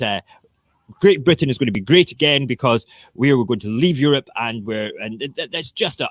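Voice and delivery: a hint of a smug politician bragging; Nigel Farage impression. Vlogger mocks the politician by playing him, lightly voiced and boastful. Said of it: "I'm gonna do my Nigel Farage impression".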